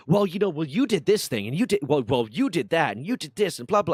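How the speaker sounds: high, loud whiny mimicry of her blaming; mocking the friend. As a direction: sneer it back in her whiny voice.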